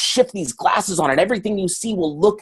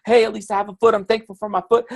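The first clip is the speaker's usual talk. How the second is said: hammed-up frustration; 6 semitones higher than usual. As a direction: overplay the pain, then flip to thanks. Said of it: "when I step on the Lego".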